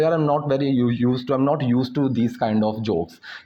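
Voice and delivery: slow, deliberate example sentence; slow teaching demo. Shown as a demonstration. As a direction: lay each word out slowly. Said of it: "तो मैं बोलूँ". (धीरे-धीरे समझाते हुए)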